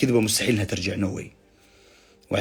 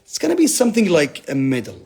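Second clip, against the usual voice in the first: slow, deliberate, weighty delivery; slow emphasis; 5 semitones higher, much slower than usual. Real, not acted. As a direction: land each word slowly like a grand claim. (ببطء وتأكيد)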